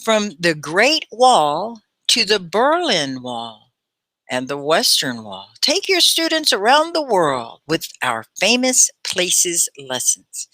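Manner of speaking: slow, articulated teacher reading; very clear read-aloud. Shown as a demonstration. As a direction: pause at the punctuation and shape every word. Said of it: "read it very clearly".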